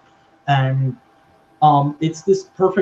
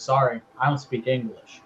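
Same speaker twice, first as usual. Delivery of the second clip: quiet broken English; 2 semitones lower, 5 dB quieter than usual. Retold or imitated. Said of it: "Shinsuke just goes".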